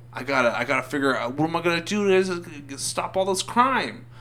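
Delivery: rising mock-anguished wail; anguished resolve. Super cop wonders how to stop all crime, anguished.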